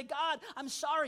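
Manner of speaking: slow, earnest sorry; mean every word, slowly; sincere apology. Shown as a demonstration. Believer coming before God to apologize honestly, sincere. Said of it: "with an honest heart".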